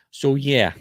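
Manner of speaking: slight New Jersey accent on "So yeah"; "So yeah" with a touch of Jersey vowels. Real, not acted. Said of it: "that's my Jersey accent coming out".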